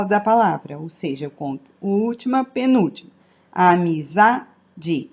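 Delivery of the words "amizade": Amizade very slow, ZA stronger than the rest; stress on ZA. Shown as a demonstration. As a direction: draw out Amizade and punch the ZA. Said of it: "eu falo za mais forte do que as outras sílabas". (Amizade bem devagar, com o ZA mais forte)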